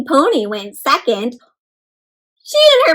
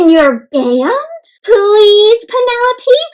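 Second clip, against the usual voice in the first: put-on pleading kids; 7 semitones higher, 7 dB louder, slower than usual. Classmates beg Penelope.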